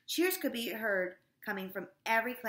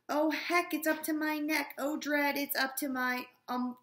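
mock panic poem reading; 4 dB louder than usual. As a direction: ham up the growing dread as the snake swallows you. Reads poem, rising panic.

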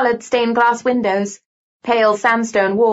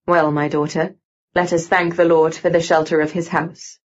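low-pitched, grave confessor's voice; solemn mock priest; 5 semitones lower than usual. A narrator's reading. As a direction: play the priest with great solemnity. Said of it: "an air of great solemnity".

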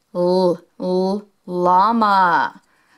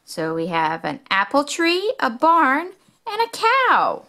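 rising higher item by item; building excitement; 5 semitones higher than usual. Acted. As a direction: build to a happy peak. Listing toward excited climax.

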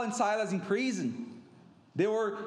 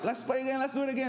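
lightly imitating pleading kids, higher pitch; higher-pitched mock kid pestering; eager kids; 6 semitones higher, much faster than usual. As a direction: beg for more play like keen children. Acting out kids begging to play.

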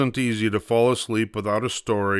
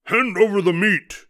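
high pirate demand; raised storybook pirate voice; pirate captain; 10 semitones higher, 4 dB louder than usual. A narrator's reading. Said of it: "gulped his food and said".

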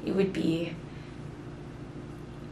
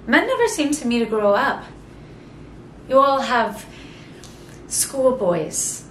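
louder, scornful; scornful outburst; 3 semitones higher, 5 dB louder than usual. Acted. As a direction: scoff at them out loud.

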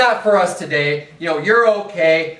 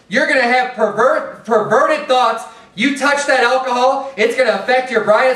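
higher, urgent warning preacher; preaching against a meek preacher, raised and urgent; crying aloud; 4 semitones higher than usual. Retold or imitated. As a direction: lift it up like a trumpet, sound the alarm. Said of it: "Lift up thy voice".

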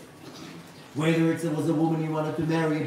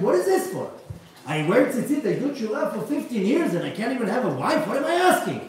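retold rant about fifteen years of effort; exasperated, raised-voice complaint; angry; 5 semitones higher than usual. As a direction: voice up high and pressing, venting. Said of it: "He came to me all ang-, angry, angry".

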